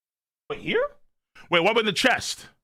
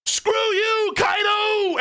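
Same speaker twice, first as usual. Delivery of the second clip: retold yell; 14 semitones higher, much slower than usual. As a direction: yell it at the enemy like an anime villain. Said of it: "She's yelling".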